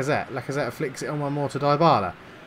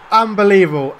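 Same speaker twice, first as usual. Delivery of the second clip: angry outburst; 4 semitones higher, 8 dB louder than usual. Real, not acted. Fuming over a missed foul.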